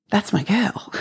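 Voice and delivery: soft, whispered pride; retold tender approval. God claims the outcast girl as his, retold in a soft whisper. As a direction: murmur it softly, like a proud parent. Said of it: "God saw me and said".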